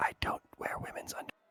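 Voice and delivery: very quiet, whispering voice. Leaning down at an altar in character, speaking very quietly. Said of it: "very, very, very quietly, I lean down and go".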